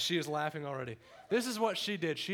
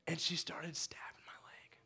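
hushed; 3 semitones higher, 5 dB quieter than usual. Real, not acted. Storytelling secret detail.

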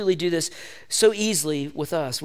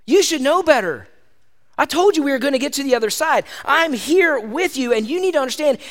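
Jesus scolding; 5 semitones higher than usual. Acted. Jesus telling the disciples they should know better. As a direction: press it home like a caring teacher. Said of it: "He's like".

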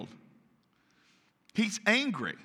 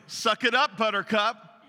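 dismissive parent; 4 semitones higher, 4 dB louder than usual. Acted. Gruff parent's dismissive retort acted.

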